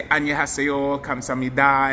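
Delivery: 안녕하세요 and 감사합니다 said quick in Korean; Korean greetings. Shown as a demonstration. Vlogger showing the Korean words he learned, spoken quickly. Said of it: "I learned how to say".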